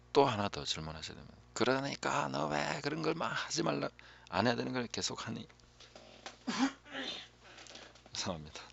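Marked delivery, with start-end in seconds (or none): 1.5-5.5 higher, half-joking nagging parent; mock scolding. Pastor imitates a parent nagging a child, in a mock scold. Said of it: "이렇게 말하면 안 되고". 6.2-7.2 a sudden high burst of laughter. Real, not acted. Pastor laughs at his own imitation of nagging, a high laugh.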